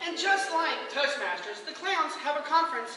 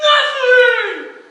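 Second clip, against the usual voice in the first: loud, high grand "Nothing!"; showman reveal shout; 10 semitones higher, 16 dB louder than usual. Retold or imitated. Performer revealing the egg trick, shouting. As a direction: announce it like a magic trick.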